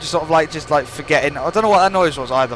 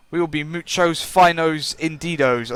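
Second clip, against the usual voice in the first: fake Spanish. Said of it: "loads of weird fake Spanish today".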